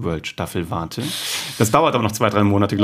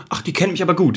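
higher-pitched mock delight; touched customer; 6 semitones higher, faster than usual. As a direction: play a customer pleased at being understood. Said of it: "Das war das Gefühl". (leicht gespielt gerührt, höhere Stimme)

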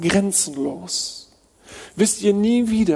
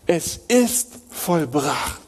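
hushed solemn; much slower than usual. Acted. Closing solemn restatement.

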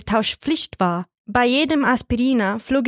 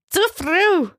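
sharp, much higher rebuke; scolding; 9 semitones higher than usual. A narrator's reading. Old woman scolding her partner for leading too early. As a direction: snap it like a stern old lady.

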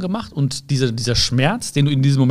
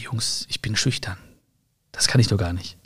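put-on boy whispering to his classmates that he's too shy; 5 semitones lower, 6 dB quieter than usual. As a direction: breathe it out timidly like a shy kid. Shy boy refusing his friends.

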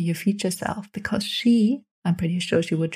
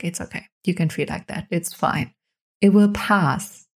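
gentle reassurance. Pretend. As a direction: soothe yourself like a friend would. Soothing self with epic compassion.

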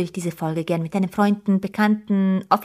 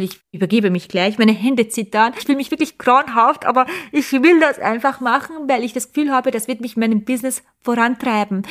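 jittery first-live nerves, voice pushed louder; nervous and shaky; 3 dB louder than usual. Pretend. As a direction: blurt it out shaky and queasy, hands trembling. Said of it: "Was wäre damals authentisch gewesen".

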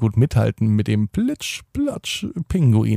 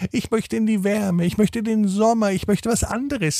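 squawky bouncy penguin; 9 semitones higher, 4 dB quieter than usual. Acted. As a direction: play a cheerful little penguin, very high. Penguin character speaks.

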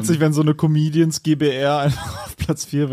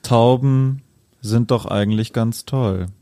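poem recital. Acted. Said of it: "das Abschlussgedicht, äh, vortragen".

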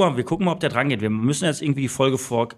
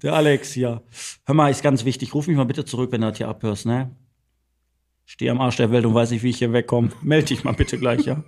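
answering machine message. Acted. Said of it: "Sprich ihm was drauf".

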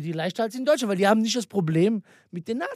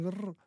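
a small rolled growl; imitated growl; 2 semitones lower, 12 dB quieter than usual. Imitated noise in retold story.

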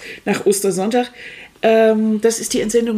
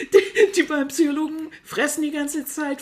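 laughing; 7 semitones higher than usual. Real, not acted. Laughing while she describes the show.

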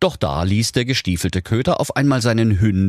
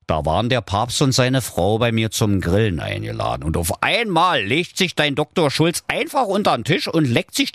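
a hint of a gossiping king; lightly voiced king; 2 semitones higher than usual. King complains to Flunky about Doktor Schulz. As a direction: complain about the dog, chatty.

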